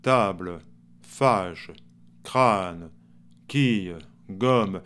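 table, fâche, crâne, quille, gomme falling low onto a faint final E; very subtle mute E. Shown as a demonstration. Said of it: "de manière très subtile". (E muet très subtil en fin de mot)

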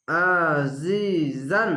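আজিজান very slow, the জি stretched; Quranic recitation demo. Shown as a demonstration. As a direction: stretch the জি in আজিজান, throat-pressed আইন. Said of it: "এক আলিফ টেনে পড়বেন". (টেনে আজিজান তিলাওয়াত)

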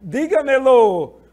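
teacher stresses first syllable; model pronunciation. Shown as a demonstration. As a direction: hit the DÍ in Dígamelo. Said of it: "Onde está a sílaba tônica".

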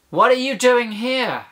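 high-pitched, affronted demand; indignant challenge. Acted. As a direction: challenge an unwelcome intruder. Paraphrases the demon's hostile challenge.

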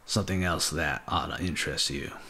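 a hint of a southern accent on the line; faint unintended southern accent; slight southern accent. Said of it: "I didn't mean to give him a southern accent".

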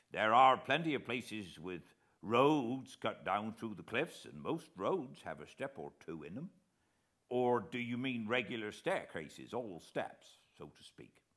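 lightly voiced naval veteran, eager to help; retired officer answering gentlemen politely; old coast guard man. A narrator's reading.

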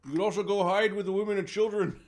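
high loud teasing jab; mocking taunt.

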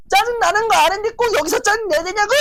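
high, loud, fast exasperated yell; angry quarrel. Retold or imitated. Husband yelling back at his wife, angry quarrel.

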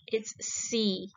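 unvoiced stage whisper; whisper hint. Shown as a demonstration. Teacher whispers answer hint to pupils, whispered.

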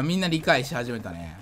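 ordinary talk, nothing marked

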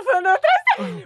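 high, loud, laughing through it. Real, not acted. Telling friend about the shopping scare, laughing. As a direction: giggle as you tell it.

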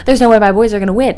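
disbelieving. Retold or imitated. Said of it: "I was like".

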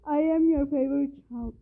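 gasp, then a half-crying plea; hammed-up crying plea; gasping mock sob. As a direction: beg like a fake-teary child. Gasps, then pleads crying.

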